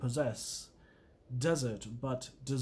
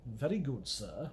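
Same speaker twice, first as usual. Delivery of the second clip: Jeeves-like reply; 4 semitones lower, 5 dB quieter than usual. Pretend. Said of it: "What would Bertie Wooster say".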